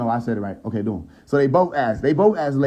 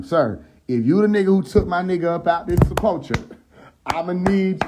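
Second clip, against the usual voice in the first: higher-pitched, lightly confrontational retelling; mock disrespectful demand; 4 semitones higher than usual. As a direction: imitate her getting pushy with a stranger. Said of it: "she got disrespectful with him".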